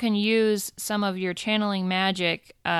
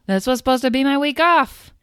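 higher, louder exasperated spider boss; exasperated yell; 4 semitones higher, 4 dB louder than usual. Acted. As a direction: yell it like a fed-up boss on her day off. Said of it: "She rolls her eyes and yells".

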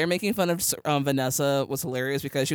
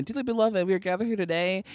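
lightly pitched-up voiceover at a wedding; Kristen Bell; 3 semitones higher than usual. Retold or imitated. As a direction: imitate a high-voiced ceremony opening. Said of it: "her voice is so high pitched".

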